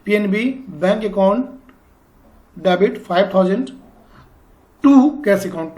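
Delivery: slow, word-by-word dictation. Shown as a demonstration. Teacher dictating the journal entry slowly for students to write down. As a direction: spell it out slowly for students to copy. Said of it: "आप लोग लिख भी सकते हो साथ साथ".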